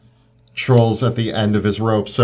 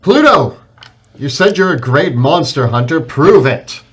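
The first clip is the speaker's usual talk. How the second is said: raised-voice rallying call to a comrade; yelled challenge; 3 semitones higher, 5 dB louder than usual. Acted. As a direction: call out a bold in-character dare. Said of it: "I yell".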